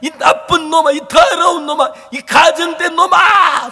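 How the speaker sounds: loud, high self-accusing yell; inner shouting. Acted. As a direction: rail at yourself in contempt. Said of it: "소리가 막 소리 지르는 거예요".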